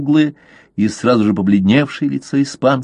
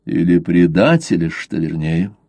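calm; 5 semitones lower than usual. Acted. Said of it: "спокойно сказал Блад".

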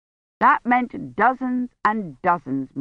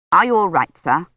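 worried and louder, pressing concern; anxious; 4 dB louder than usual. A narrator's reading. Worried curate checking on Dunworthy, anxious. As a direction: fret over his master's health. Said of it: "he said anxiously".

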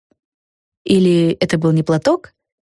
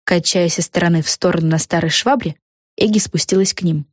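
ordinary delivery

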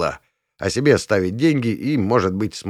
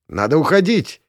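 higher, urgent exclamation; exclaimed; 7 semitones higher, 3 dB louder than usual. A narrator's reading. Dorish urges the men to flee, exclaiming urgently. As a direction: urge everyone to go now. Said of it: "воскликнула Дориш".

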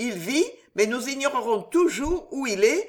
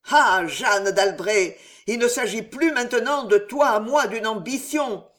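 a hint of hoarse, hissing rage, louder; hoarse hissing fury; 3 semitones higher, 4 dB louder than usual. The queen vowing Jeanne d'Albret's death in hoarse fury. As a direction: swear death on her enemy. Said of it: "rauques et sifflantes".

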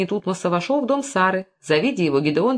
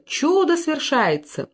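slow, high call stretching the words; high slow proclamation of чудо; drawn-out cry; 9 semitones higher, much slower than usual. A narrator's reading. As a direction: proclaim the miracle slowly. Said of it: "Вдруг кто-то крикнул".

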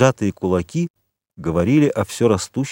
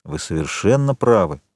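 impassive. Acted. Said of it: "бесстрастно сказал Моррель".

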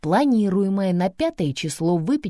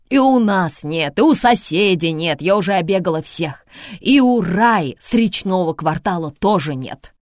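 agitated loud; 5 dB louder than usual. Acted. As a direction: list the bad news loudly. Grandma agitated on phone.

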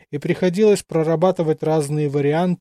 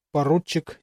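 usual speaking voice

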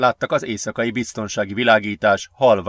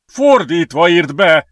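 loud, high, drawn-out instruction; urgent high-pitched yell; shout; 6 semitones higher, 8 dB louder, slower than usual. A narrator's reading. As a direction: yell it across to your friend. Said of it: "ordította".

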